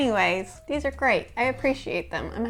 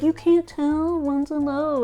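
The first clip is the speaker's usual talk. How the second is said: imitating frustrated husband; 5 semitones higher, slower than usual. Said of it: "He's just like".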